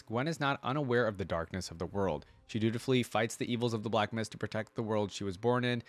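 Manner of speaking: even, measured article read-out; reading aloud. Acted. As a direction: read it out like an encyclopedia entry. Reads the character's lore aloud.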